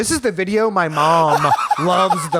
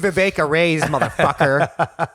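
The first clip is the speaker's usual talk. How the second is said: mock threat. Brother threatening boss, retold.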